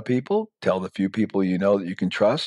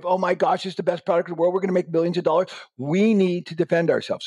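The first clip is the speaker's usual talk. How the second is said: much higher, eager and excited; excited to wife; 9 semitones higher than usual. Pretend. Husband hyping the product to his wife, much higher. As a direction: hype it up to the wife.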